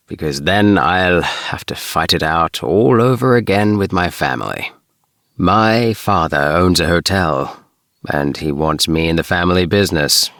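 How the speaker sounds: a hint of a weary rebel son; Ring's voice. Ring tells of his family.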